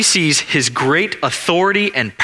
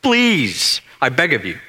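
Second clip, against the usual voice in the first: begging. Acted. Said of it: "he cried out to Jesus".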